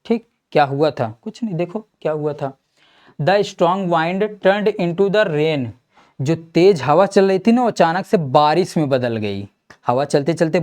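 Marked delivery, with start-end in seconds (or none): 3.2-5.7 very slow, word by word reading of the question; slow dictation read. Acted. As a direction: read it out slowly so students can write. Teacher dictates the answer slowly.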